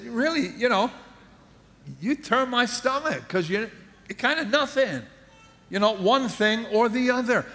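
voice of the Lord. Acted. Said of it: "He said".

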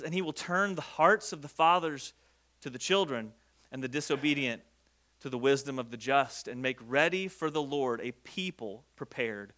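hushed, deliberate reading aloud; scripture reading. A narrator's reading. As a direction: read the verse out low, with measured pauses. Reads scripture aloud to congregation.

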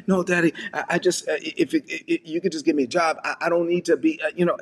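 mildly acted humble stammer; stammering plea. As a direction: trip over the words while pleading. Son pleads with father, stammering.

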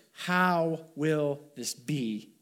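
slow, spaced-out question, mildly troubled; hesitant, drawn-out wondering; trepidation. Acted. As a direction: voice Mary's trepidation lightly, stretching each word. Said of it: "you can hear the trepidation in her voice".

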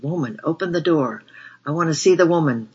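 put-on loud, slurring drunk yelling at a door; drunken yell. A narrator's reading. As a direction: bellow it like a drunk pounding the door. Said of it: "a drunken voice yelled".

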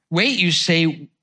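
measured, heartfelt reading of a poem. Acted. Pastor reading a poem on waiting to the congregation, heartfelt.

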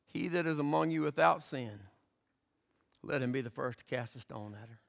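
soft, low, weighty words; quiet solemn challenge. Acted. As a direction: let the challenge sink in quietly.

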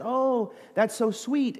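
high, slow, syrupy mock-sweetness; gushing waitress. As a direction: coo it like an overly sweet waitress. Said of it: "And so she said".

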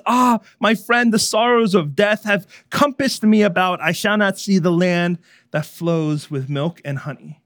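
high, loud acted lament, easing off; despairing. A narrator's reading. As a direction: lament aloud like a drowning man. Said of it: "Christian continues spiraling in despair".

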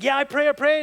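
high, flustered imitation; mock hasty insistence. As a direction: brush off the pastor with eager assurance. Same stranger insisting while fleeing.

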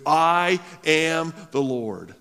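I am the Lord, loud, slow and heavy; declared. Retold or imitated. Preacher booming God's closing words, proclaiming. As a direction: thunder it out, slowly. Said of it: "ends the response in verse eight with".

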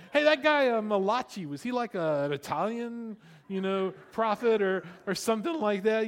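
a clueless newcomer asking the pastor; naive new believer. Retold or imitated. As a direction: ask it like you really don't know.

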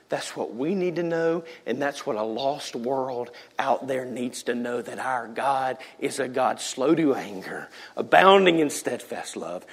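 soft, slow, near whispered; hushed reverence. Real, not acted. Preacher softly telling church the God they serve. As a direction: let it sink in gently.

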